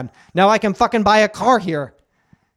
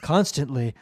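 creepy professor; 4 semitones lower than usual. Acted. Predatory professor voice.

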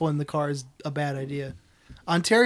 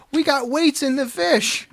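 1 quoting the organizer; 7 semitones higher than usual. Retold or imitated. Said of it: "the instant classic".

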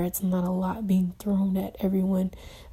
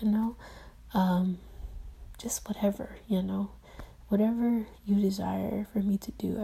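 soft, hushed prayer to God; whispered prayer; 4 dB quieter than usual. Real, not acted. Believer quietly asking God for guidance, whispered prayer. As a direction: pray it quietly, barely above a breath.

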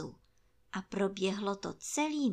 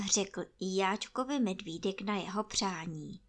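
ordinary delivery, nothing marked

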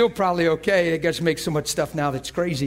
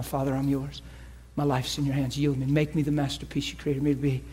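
soft spoken prayer; 4 dB quieter than usual. Shown as a demonstration. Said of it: "You get personal right now".

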